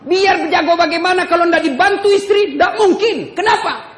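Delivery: preacher shouting to the men; shouted point. Acted. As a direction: drive it home with a shout.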